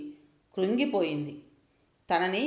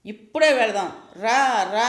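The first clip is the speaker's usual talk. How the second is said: put-on child's demanding yell, louder; loud child shouting; 6 dB louder than usual. Boy screaming at grandma to go now, loud demanding yell. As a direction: bawl it like a furious little boy. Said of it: "అని గట్టిగా అరుస్తున్నాడు".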